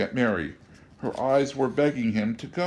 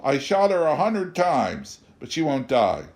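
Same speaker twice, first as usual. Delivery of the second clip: put-on whiny boy; 6 semitones higher, 4 dB louder than usual. A narrator's reading. Boy whining to mother.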